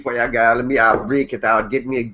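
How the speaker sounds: light mock Jamaican patter; Jamaican accent. Scene: host teasing the birthday girlfriend, light mock Jamaican accent. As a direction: joke in a half-hearted Jamaican accent. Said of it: "girlfriend wants some Jamaican".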